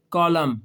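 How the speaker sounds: "कॉलम" said as kolam, no n sound at the end; silent n in column. Shown as a demonstration. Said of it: "इसमें एन नहीं बोल रहा". ("कॉलम" को आखिरी एन के बिना बोलें)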